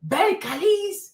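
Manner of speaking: eerie name call. Retold or imitated. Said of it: "If I'm somewhere and I hear".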